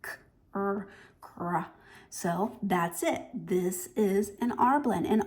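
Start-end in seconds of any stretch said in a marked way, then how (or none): 0.0-1.6 "k" and "r" apart, then run together as "kr"; both sounds blended. Shown as a demonstration. Teacher explaining an R blend, both sounds said then joined. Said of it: "you say both sounds".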